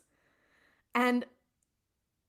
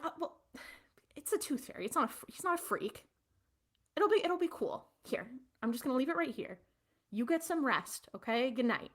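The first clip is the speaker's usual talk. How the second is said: soothing bedtime dad; 3 semitones higher, 4 dB quieter, faster than usual. Retold or imitated. Dad tucking his daughter into bed, softly reassuring. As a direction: coax her calmly to sleep.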